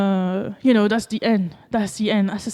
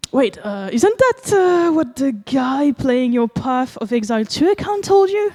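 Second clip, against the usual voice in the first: high-pitched, louder teasing query; mock-innocent teasing question; 3 semitones higher, 4 dB louder than usual. Streamer voicing Assassin's Creed's reply to Musk, mock-innocent. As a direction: ask it with exaggerated innocence, pitched up.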